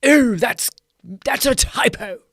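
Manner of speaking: high, loud mock pedant tutting "Ooh, that's a typo"; non-American redo of the pedant. Mocking a street pedant who spots a typo, high loud put-on voice. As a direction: redo the stranger's correction in a put-on voice, not American. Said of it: "Why would I say it in an American voice?".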